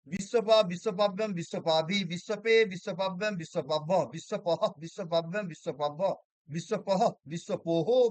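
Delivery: rhythmic rote recitation of word forms; declension recitation. Acted. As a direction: chant the case forms like a drill, lightly.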